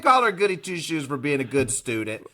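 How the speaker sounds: high-pitched indignant defence; playful scolding. Real, not acted. Co-host defending a good student, playfully indignant. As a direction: jump in and tell them off.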